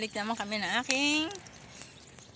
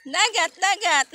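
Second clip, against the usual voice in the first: laughing; 9 semitones higher, 5 dB louder than usual. Real, not acted. Grandpa playing with toddler.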